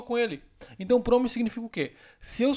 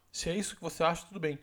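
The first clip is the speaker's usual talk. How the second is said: soft, cool and resigned; calm, quiet dismissal; 3 semitones lower, 6 dB quieter than usual. Shown as a demonstration. Woman ending the argument with her partner, quiet and calm. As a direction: let it drop quietly. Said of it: "quando a mulher fala assim, ó".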